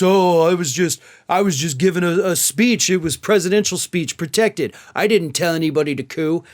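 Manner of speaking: whiny mock excuse, lightly voiced; mock Trump excuse. Host mimics Trump dodging in court, mock whine. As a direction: play the defendant brushing it off.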